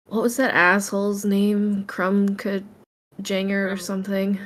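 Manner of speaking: low muttered aside, half to oneself. Voicing a character reading the news, muttering under his breath. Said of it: "he'll kind of say under his, his breath".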